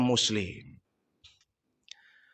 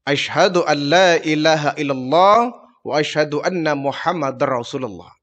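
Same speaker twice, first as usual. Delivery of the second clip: calm, half-whispered recitation of the shahada; Prophet reciting the creed; 4 semitones lower than usual. Acted. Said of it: "Kau harus mengucapkan dua kalimat syahadat".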